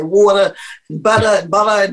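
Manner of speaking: blur the middle consonant of "water" and "butter"; muddled D's and T's. Shown as a demonstration. Stroke survivor showing how words came out, muddled consonants. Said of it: "My D's and my T's were all muddled".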